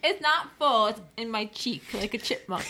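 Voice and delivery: talking through a mouthful of food; mouth full. Real, not acted. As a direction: cheek stuffed with food, words round it. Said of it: "Your mouth full of food?".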